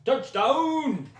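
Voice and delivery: high, loud cheering at the screen. Real, not acted. Fan cheering a live touchdown at the TV, loud and high. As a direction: yell the team to the end zone.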